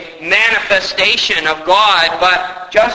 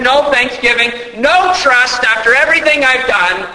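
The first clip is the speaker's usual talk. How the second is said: mock wounded anger; 3 semitones higher than usual. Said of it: "we would be tempted to say".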